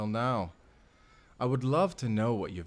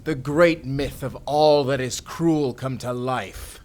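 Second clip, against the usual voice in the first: a touch of grand menace, louder at the end; villain reveal; 6 dB louder than usual. Acted. Villain revealing his true self to the author, menacing. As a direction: announce yourself as the dark myth.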